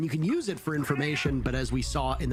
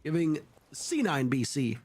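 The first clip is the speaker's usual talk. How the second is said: brisk live esports commentary; play-by-play; 3 semitones higher than usual. Real, not acted. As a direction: call the round as it unfolds.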